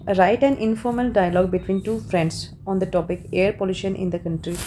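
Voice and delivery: slow, deliberate reading of an exam prompt; reading the question. Shown as a demonstration. Teacher reading the exam question to students, slow and deliberate. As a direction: read it out slowly, word by word.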